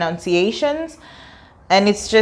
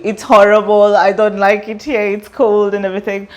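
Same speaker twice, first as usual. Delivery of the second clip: mock whining; 2 semitones higher than usual. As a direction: whine like a homesick student, lightly. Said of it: "when I felt like whining and complaining".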